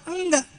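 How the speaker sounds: a high, sharp "Enggak"; emphatic no. Real, not acted. Preacher answering his own question to the congregation, a firm high no. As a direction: snap back a firm no.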